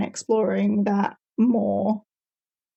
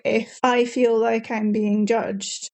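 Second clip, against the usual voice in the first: very proper English, as if being judged; formal correct English. Shown as a demonstration. Speaker shows how they talk when judged, formal correct English. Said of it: "very, very formal and very, very correct English".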